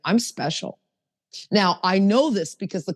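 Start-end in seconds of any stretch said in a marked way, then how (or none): 0.0-0.8 plain, sincere self-affirmation; earnest, understated declaration. Shown as a demonstration. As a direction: say it simply and mean it. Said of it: "I mean it".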